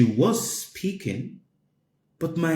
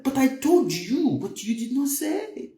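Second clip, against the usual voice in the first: mock angry complaint; 12 semitones higher than usual. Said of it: "we start becoming angry".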